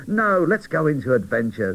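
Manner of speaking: lightly voiced boy doll insisting; eager boy doll. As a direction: voice jumps up, keen to go. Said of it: "said Quincy".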